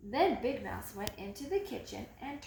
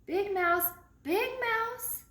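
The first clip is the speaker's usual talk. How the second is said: higher, louder call into the night; 9 semitones higher, 5 dB louder, slower than usual. Acted. Little mouse calling to Big Mouse about a burglar. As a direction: call out to wake him, pitch climbing. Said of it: "called Little Mouse".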